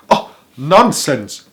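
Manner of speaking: loud, slow scoff at the warning; shouted. A narrator's reading. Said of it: "shouted the prince".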